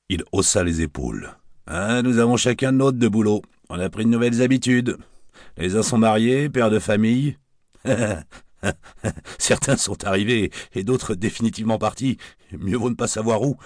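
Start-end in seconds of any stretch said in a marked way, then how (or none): 1.7-13.6 lightly voiced barman, higher and jaunty; a hint of a wisecracking Paris barman; cheeky barman. Barman orders drinks for his old friend, jaunty higher voice.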